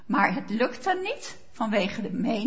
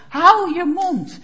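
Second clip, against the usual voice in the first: snapping hush-up; 4 semitones higher, 7 dB louder, slower than usual. Retold or imitated. Preacher voicing the crowd silencing the blind man, loud slow snap. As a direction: bark it slowly at him to shut him up. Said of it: "De menigte snauwt hem de mond".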